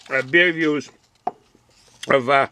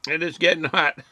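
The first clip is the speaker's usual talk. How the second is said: laughing; 3 dB quieter than usual. Real, not acted. Laughs at spicy salsa heat.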